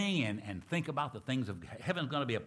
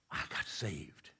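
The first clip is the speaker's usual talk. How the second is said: softer, slow whispered secret; 5 semitones lower, 7 dB quieter, slower than usual. Retold or imitated. Newly saved slave tells the deacon, soft slow whisper. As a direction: whisper it close to his ear. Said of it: "gonna whisper in his ear".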